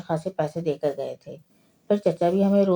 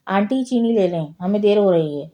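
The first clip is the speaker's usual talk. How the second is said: calling out loud; 2 semitones higher, 5 dB louder than usual. Retold or imitated. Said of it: "زور سے آواز لگائی".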